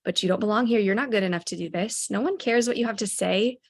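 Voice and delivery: a hint of a sneering demon telling him he doesn't belong; mild mock demon voice. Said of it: "he would have the little demon voice".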